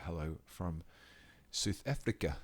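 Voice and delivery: a light attempt at a South African accent; hammed-up South African accent hello. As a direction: greet them in your best South African accent. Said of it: "That's the best South African accent I can do".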